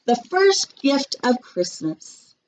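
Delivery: slow, grand proclamation to the crowd; Santa calling out. A narrator's reading. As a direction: announce it to all the elves. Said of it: "called out".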